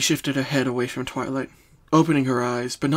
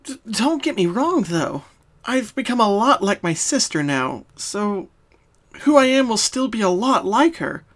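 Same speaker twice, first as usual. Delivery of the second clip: reassuring; 8 semitones higher, 4 dB louder than usual. Acted. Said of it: "trying to dispel any worry".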